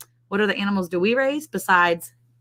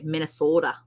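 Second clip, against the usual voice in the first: Minnesota accent; 3 dB quieter than usual. Shown as a demonstration. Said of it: "That's my accent version".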